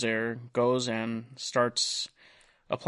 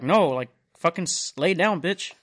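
half-shouted order, pitched up; mock angry yell; 5 semitones higher, 6 dB louder than usual. Retelling paramedics yelling at patient, mock angry shout. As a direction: bark it like a fed-up paramedic.

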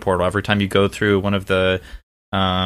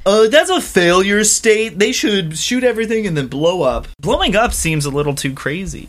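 mock engineer voice; 11 semitones higher, 3 dB louder than usual. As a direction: play a self-important engineer.

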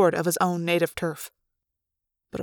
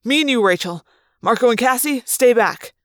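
snapped orders; 3 semitones higher, 5 dB louder than usual. Acted. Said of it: "I snapped".

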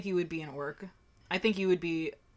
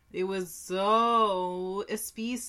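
laughing; 3 dB louder, much slower than usual. Real, not acted. Laughing about spicy burrito.

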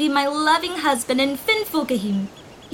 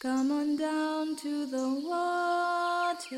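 right in your ear; 9 dB quieter, slower than usual. Acted. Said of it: "as clear as my voice in your ear".

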